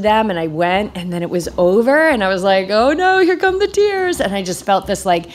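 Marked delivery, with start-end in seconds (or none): 2.7-4.2 mock dismay. Realizing she will cry.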